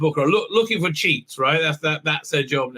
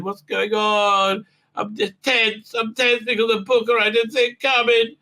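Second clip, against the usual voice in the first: higher, whiny self-pity, lightly voiced; mock whiny doctor; 6 semitones higher than usual. Recapper mocking the doctor's guilt, whiny. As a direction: moan it like a martyr.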